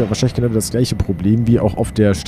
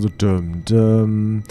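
chime imitation; much slower than usual. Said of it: "dieses düm".

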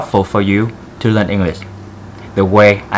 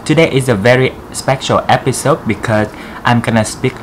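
put-on Vietnamese accent. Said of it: "I want to do this video in very thick Vietnamese accent".

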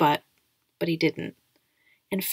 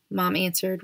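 ordinary delivery, nothing marked

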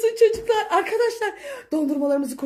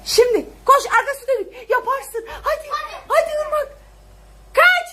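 high, fast and laughing; excited cheering; 8 semitones higher than usual. Real, not acted. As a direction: urge her on, then celebrate. Cheering child on during chase. (yüksek perdeden heyecanlı teşvik)

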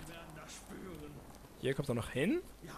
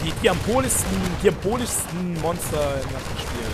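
mock dramatic; 3 dB louder than usual. Dramatic monster intro.

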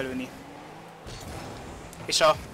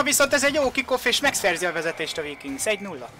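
rising excitement, higher and louder at the end; excited commentary; 7 semitones higher, 3 dB louder than usual. Real, not acted. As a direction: build up to the goal call. Goal scored in live commentary.

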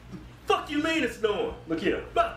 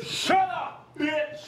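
yelling shut up; 5 semitones higher, much slower than usual. Real, not acted. Yells to cut off the other.

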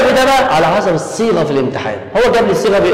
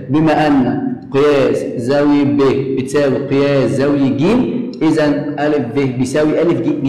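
slow dictation; 3 semitones lower than usual. Shown as a demonstration. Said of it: "أكتبها في المقرأ".

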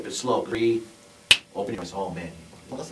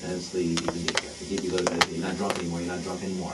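soothing hypnotist; 3 semitones lower than usual. Acted. Hypnotist puts subject to sleep.

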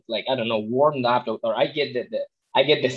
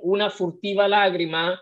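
a slightly higher, tiny little voice; 5 semitones higher than usual. Retold or imitated. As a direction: lightly mimic a timid tiny singing voice. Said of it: "with my tiny, teeny voice".

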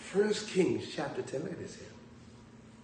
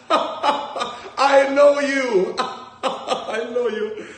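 high, very slow, laughing I know you; imitating old lady; 10 semitones higher, 8 dB louder, much slower than usual. Old lady in church recognizing the preacher, gushing slowly. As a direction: drag it out like a starstruck fan. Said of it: "the lady said".

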